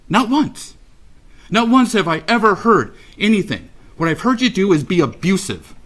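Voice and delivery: real indignation, pitch jumping high; indignant rebuke. Real, not acted. Parent rebuking defendant for no apology, indignant. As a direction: accuse him with rising, high-pitched outrage.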